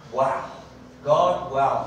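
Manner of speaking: loud awestruck wow; awed prayer. Acted. Preacher modelling an awed prayer to God. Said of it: "You're gonna say".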